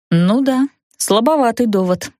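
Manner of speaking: plain reading voice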